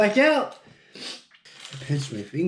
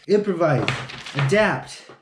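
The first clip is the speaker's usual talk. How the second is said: motivational mantra. Shown as a demonstration. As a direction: drill it like a slogan. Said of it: "What's the other one?".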